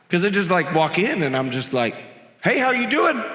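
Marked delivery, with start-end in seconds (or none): 2.4-3.2 higher, chirpy hello; too-casual hospital-visit hello; breezy mock greeting. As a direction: act out a tactlessly casual greeting. Acts out awkward hospital visit greeting.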